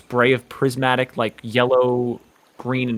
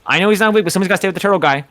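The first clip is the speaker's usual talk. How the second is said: higher, louder, rattled off fast; excited Richie; 6 semitones higher, 5 dB louder, much faster than usual. Acted. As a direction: blurt it out in one eager rush. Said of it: "He says".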